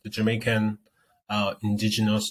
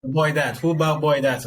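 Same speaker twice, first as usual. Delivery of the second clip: mimicking Jamaican speech; 3 semitones higher, 4 dB louder than usual. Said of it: "Instead of them to say".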